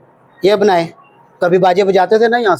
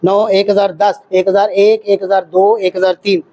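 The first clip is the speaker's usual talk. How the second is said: steady, rhythmic one-thousand count; counting compressions; 2 semitones lower than usual. Shown as a demonstration. Instructor keeping time for thirty chest compressions. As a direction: count out each compression evenly. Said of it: "ये भी यही होगा".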